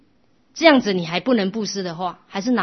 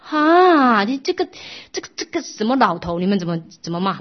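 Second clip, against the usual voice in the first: shrill-free but loud, higher furious scolding; angry scolding wife; 3 semitones higher, 6 dB louder than usual. Acted. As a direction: scold him for giving away the gold. Wife scolds husband giving away savings.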